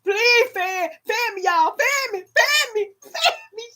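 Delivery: breathless pleading; overheated pleading. Real, not acted. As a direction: plead for air mid hot flash. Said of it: "I done went through a hot flash".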